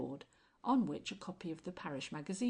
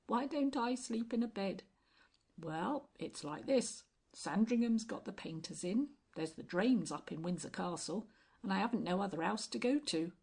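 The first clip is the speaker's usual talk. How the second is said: tramp voice; 2 semitones higher, 4 dB louder than usual. Acted. Tramp spinning his tale.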